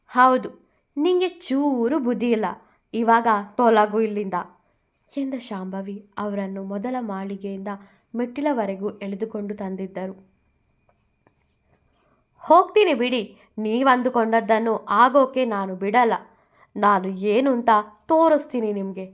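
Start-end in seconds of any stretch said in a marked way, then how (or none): 0.1-4.3 sharp, raised scolding; angry retort. Acted. Shambhavi scolding Sudha on the stairs, angry. 12.4-19.1 loud, defiant threat; angry threat. Acted. Sudha threatening Shambhavi as she leaves, angry.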